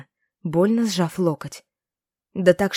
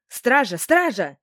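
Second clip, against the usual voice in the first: higher call for help; old woman's outcry; 5 semitones higher, slower than usual. A narrator's reading. Old seller summoning market guards, crying out. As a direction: cry out for the guards. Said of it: "На крик старухи".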